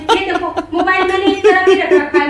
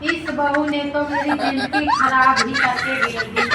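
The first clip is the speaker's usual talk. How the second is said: a hint of a whiny mother-in-law, slightly lower and softer; grumbling mother-in-law; 4 semitones lower, 4 dB quieter than usual. Mother-in-law complaining to the audience about her son's wife, mildly whiny. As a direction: sigh about the worthless daughter-in-law like a put-upon elder.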